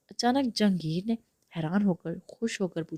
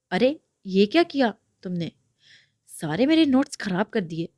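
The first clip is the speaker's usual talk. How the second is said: louder, scolding over ruined notes; angry shout; 5 dB louder than usual. Acted. Brother yells at Iram over his ruined notes, angrily. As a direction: snap at her for ruining his notes. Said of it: "غصے سے ارم کی طرف دیکھ کر چلاتے کہا".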